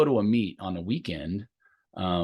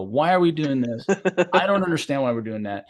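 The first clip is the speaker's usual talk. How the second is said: whiny athlete; 5 semitones higher, 3 dB louder than usual. Retold or imitated. Athlete questioning new coach.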